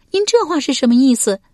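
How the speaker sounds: high female voice, affronted; high-pitched, offended question; affronted noblewoman. Acted. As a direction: demand his meaning in a high lady's voice. Wife challenges husband's insinuation.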